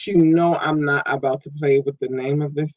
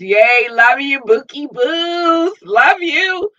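put-on much higher, cooing baby voice; sweet squeaky pet-name voice; cutesy squeal; 10 semitones higher, 3 dB louder, much slower than usual. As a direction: coo it to your fans like pets.

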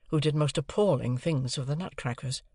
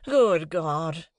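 desperate cry; 4 semitones higher, 5 dB louder than usual. A narrator's reading. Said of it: "cried Mister Pocket in ... of desolate desperation".

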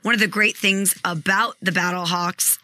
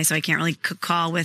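tired hoarse throat. Real, not acted. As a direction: voice going, worn out. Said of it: "My voice is going today".

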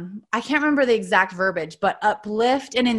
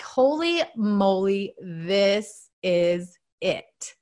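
slow hushed whisper of realization; awed whisper; 3 dB quieter, much slower than usual. Real, not acted. To her listeners, realizing her purpose, in a slow awed whisper. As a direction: breathe it out slowly, stunned.

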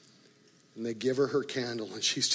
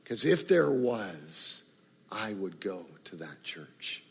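hushed wonder; 5 semitones lower than usual. Retold or imitated. Owner moved, punchline.

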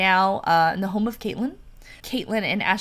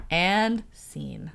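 whisper. Real, not acted. GM whispers scene cue.

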